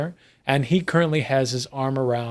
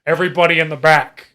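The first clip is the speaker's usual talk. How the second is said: herding order; 4 dB louder, faster than usual. Acted. Crash herds everybody to back room.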